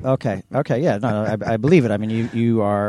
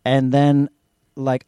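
usual speaking voice

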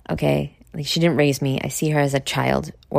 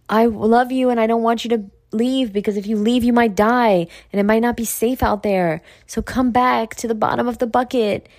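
higher-pitched mock plea, lightly acted; crabs pleading; 4 semitones higher than usual. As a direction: lightly voice a worried, clingy crowd. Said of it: "they're like".

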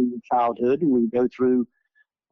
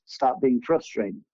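slow, softer, even divine voice; calm voice of God; 3 semitones lower, 3 dB quieter, slower than usual. Retold or imitated. A divine voice repeating its one message, calm and slow. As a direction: say it slowly and softly, from above. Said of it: "That's all the voice said was".

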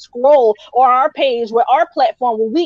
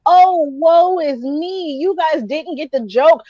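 mock self-pity; 3 semitones higher than usual. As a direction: mimic him playing the wounded victim. Mocking someone's self-pitying post.

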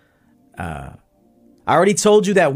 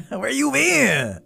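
teasing greeting; 12 semitones higher, much slower than usual. Real, not acted. Greeting a client, slowed and teasing.

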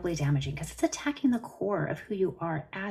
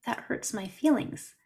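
sweet sad little voice; 3 semitones higher than usual. Retold or imitated. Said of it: "sweet, sad little voice".

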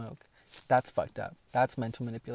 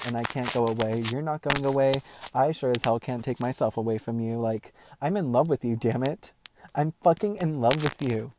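loud pleading confession; 6 dB louder than usual. Retold or imitated. Retelling her love confession to him at the creek, loud and heartfelt. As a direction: pour your heart out to him, voice up.

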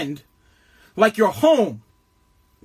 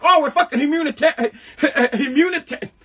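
laughing mockery; 3 semitones higher than usual. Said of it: "They're like".

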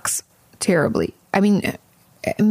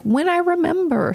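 higher, sing-out mock answer; mock-sheepish reply; 10 semitones higher than usual. Host answers viewers about her posting time, mock-sheepish higher voice. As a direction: toss it off high and playful.

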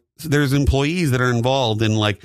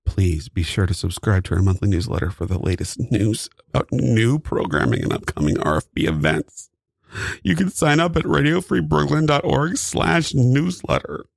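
ad read. Pretend. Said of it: "do it better".

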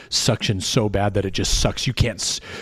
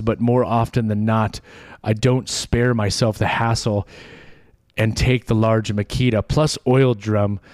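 running out of breath mid-sentence. Real, not acted. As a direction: push through one long breath until empty. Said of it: "I ran out of breath from the run-on sentence there".

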